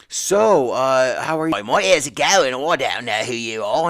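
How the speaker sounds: high, loud puzzled greeting to a stranger; confused stranger. Retold or imitated. Friend acting like a stranger.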